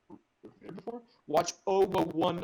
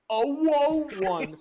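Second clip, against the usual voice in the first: laughing; 11 semitones higher, 9 dB louder, much slower than usual. Real, not acted. Laughing exaggerated word.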